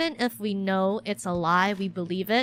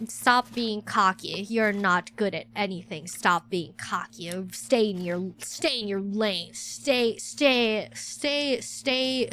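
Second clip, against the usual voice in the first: harsh inner critic voice; slower than usual. Retold or imitated. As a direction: put yourself down slowly and coldly, like a stern master. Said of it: "there's this voice inside my head being like".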